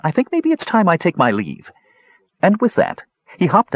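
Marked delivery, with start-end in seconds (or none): 0.0-1.7 light kender. Acted.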